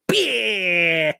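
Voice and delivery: high sharp kiai yell; a quick high karate cry; Van Damme kiai. Retold or imitated. Imitating Van Damme's karate shout for the viewers. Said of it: "The way he spoke".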